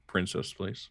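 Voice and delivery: small, low, soft request; really soft. Acted. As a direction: ask it softly and sheepishly. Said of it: "He says really softly".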